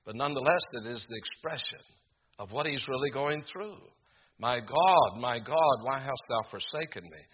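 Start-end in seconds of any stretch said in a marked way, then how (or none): 4.4-7.2 anguished cry. Retold or imitated. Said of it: "that expression is deep, and it is painful".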